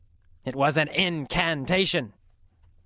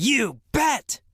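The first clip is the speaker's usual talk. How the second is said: higher, mildly acted exclamation; excited quote; 8 semitones higher than usual. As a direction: lightly re-enact her eager answer. Re-enacts her yelled answer.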